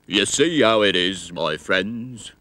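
lightly voiced stomach; talking stomach. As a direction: reason gently as the stomach. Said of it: "said the riddler's stomach".

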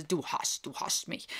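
breathy whispered line; a soft unvoiced echo of the song; whispered song quote. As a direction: whisper the hook to yourself. Humming a band's hook.

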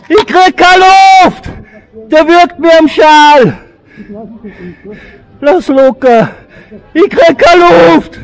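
panicked gasping, can't breathe; hyperventilating. Real, not acted. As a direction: gasp the words out in real panic.

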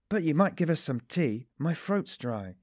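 cried out. A narrator's reading. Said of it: "cried Razumikin".

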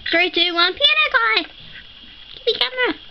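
ramp up the countdown; excited countdown. Pretend. Child hosting a toy contest, counting down excitedly.

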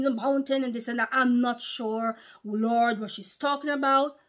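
lightly acted hesitant prayer; doubting listener. Listener praying about Sister Karen's teaching, openly unsure. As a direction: act out a listener admitting doubt to God. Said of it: "it's okay for you to say".

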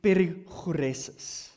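perichoresis in Greek, peri-khoo-RE-sis with a throaty kh; Greek pronunciation. Shown as a demonstration. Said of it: "if you wanna say it in Greek".

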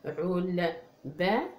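علبة drawn out slowly, ʕul-ba; slow teacher demo of علبة; slow sounded-out word. Shown as a demonstration. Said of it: "نبحث عن كلمة أو حرف الباء".

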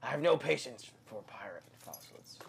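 lightly voiced pirate captain. Shown as a demonstration. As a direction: snarl it like a pirate. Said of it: "read it like a perp".

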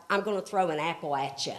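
"apple at ya" said to sound like Appalachia; local pronunciation. Shown as a demonstration. West Virginian showing how Appalachia is said, "apple at ya". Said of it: "you pronounce it like".

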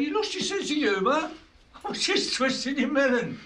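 chuckling, light teasing; laughing tease. Acted. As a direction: laugh it off to ease the tension. Teasing after a quarrel.

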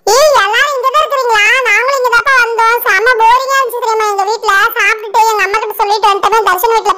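put-on high, bright little girl bursting in on friends; a chirpy kid calling to her friends; excited young girl. Girl arriving at her friend's house to play, chirpy and high. Another child arrives, voiced.

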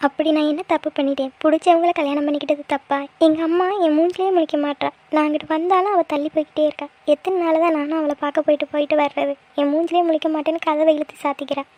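mildly tearful, hurt protest. Acted. Aunt tells niece her own mother shuns her, tearful. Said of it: "அத்தை, அழாதீங்க அத்தை".

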